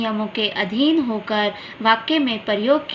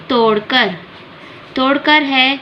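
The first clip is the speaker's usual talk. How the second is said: तोड़कर said louder and set apart on its own; stressed word; 2 semitones higher, 5 dB louder than usual. Shown as a demonstration. Teacher stresses तोड़कर to show the verb, louder. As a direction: lean hard on तोड़कर. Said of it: "शब्द पर अधिक जोर है".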